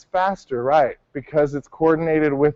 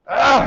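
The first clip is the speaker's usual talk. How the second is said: kiai that swells at the end; 6 semitones higher than usual. Shown as a demonstration. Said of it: "Does it go like".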